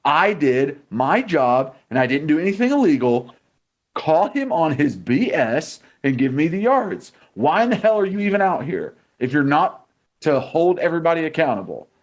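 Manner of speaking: high-pitched, heated outburst; really fired up, pitch jumping high; fired-up rant. Real, not acted. Furious rant at the refs.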